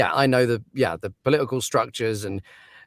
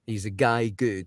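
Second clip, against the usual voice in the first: put-on slow Scottish accent; drawn-out Scottish quote; slower than usual. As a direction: imitate the stepdad's Scottish saying, slowly. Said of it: "is Scottish".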